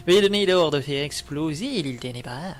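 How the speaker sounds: theatrical villain demand. Acted. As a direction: put on a menacing villain voice. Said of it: "il faudrait que je fasse une voix de méchant". (voix de méchant théâtrale)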